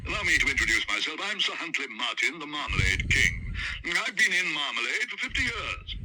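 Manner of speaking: put-on loud, hearty old gentleman; Sir Huntley. Sir Huntley introduces himself to the Browns. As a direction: introduce yourself grandly.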